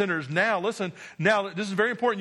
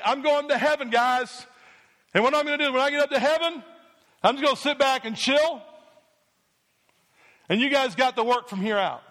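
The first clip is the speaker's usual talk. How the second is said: mock casual Jesus; 4 semitones higher than usual. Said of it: "Jesus didn't say".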